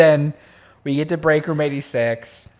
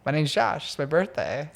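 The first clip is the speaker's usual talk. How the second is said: smooth version in Josh's mind. Retold or imitated. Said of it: "it sounded like this".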